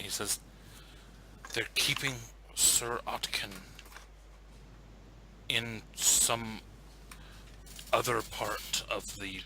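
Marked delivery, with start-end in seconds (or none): 1.5-9.4 hushed, secretive, halting; very quiet whispering. Acted. Guard secretly tells the rat where he is kept, very quiet. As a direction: pass on a secret under your breath. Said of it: "whispers to you very quietly".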